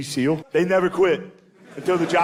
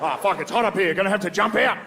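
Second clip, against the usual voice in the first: put-on Australian accent; 5 semitones higher than usual. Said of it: "an Australian guy in the office".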